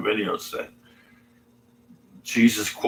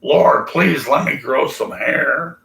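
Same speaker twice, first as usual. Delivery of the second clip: 1 mock pleading prayer; 5 semitones higher, 3 dB louder, slower than usual. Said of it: "I would say".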